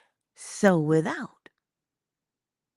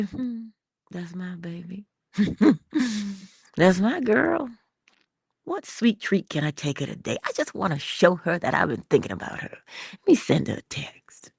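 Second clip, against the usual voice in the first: fond murmur. Acted. Acting a man fond of partner.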